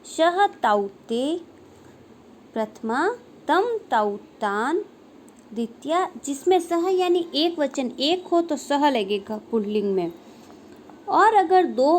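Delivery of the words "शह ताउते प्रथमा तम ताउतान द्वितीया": declension recitation. Shown as a demonstration. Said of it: "इसका रूप किस प्रकार से बनेगा". (सर्वनाम रूपों का धीमा पाठ)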